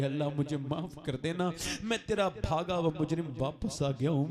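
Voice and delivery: a hint of a dying son pleading. Dying son begging Allah for mercy, mildly pleading. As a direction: plead with God, lightly voiced.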